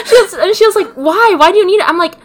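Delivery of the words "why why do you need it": higher, louder mock mom scolding. Mom scolding her daughter over moldy mushrooms, in a hammed-up voice. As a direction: imitate mom telling her off.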